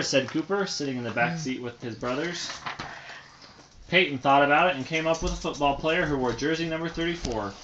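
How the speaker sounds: storybook read aloud; reading to children. A narrator's reading. Parent reading a bedtime story to a child, storybook voice. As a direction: read it gently to a little listener.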